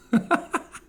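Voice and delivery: brief high chuckle; short laugh. Real, not acted. Commentator after a jab at the left, short laugh. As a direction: let out a quick little laugh.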